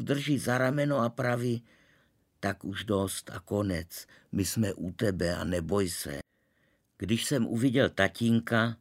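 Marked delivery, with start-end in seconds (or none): 2.4-6.2 comforting father. Acted. Father comforting scared son.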